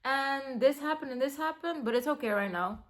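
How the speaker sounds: breezy, offhand retelling; mock casual. Imitating herself brushing off problems casually. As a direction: toss it off like it's nothing. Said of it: "really, really casually be like".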